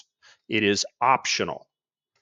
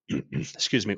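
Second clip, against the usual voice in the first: holding back a sneeze; 2 semitones lower, 4 dB quieter than usual. Real, not acted. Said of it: "I'm trying not to sneeze, cough".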